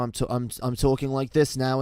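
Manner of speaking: voice creeping up. Shown as a demonstration. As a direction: start the put-on voice, loud and level. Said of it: "it would get higher".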